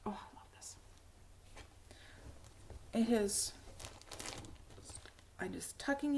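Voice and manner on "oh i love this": soft whispered delight; whispered love for the bag. Real, not acted. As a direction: breathe it out in a hushed whisper. Admiring the knitting bag.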